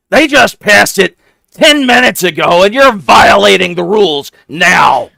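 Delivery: very high, loud goblin squeak; a small goblin sizing up strangers, shrill-pitched; squeaky goblin. Acted. GM voicing a goblin questioning the rogue's party, squeaky and high. Goblin insists on new rule.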